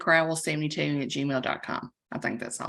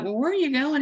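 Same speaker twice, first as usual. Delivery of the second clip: curious question; 9 semitones higher, faster than usual. Retold or imitated. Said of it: "I was like".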